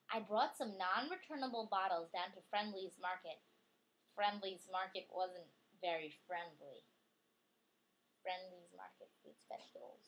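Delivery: lively storybook reading voice; reading to a child. Acted. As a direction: read it out brightly for a child. Reading picture book aloud.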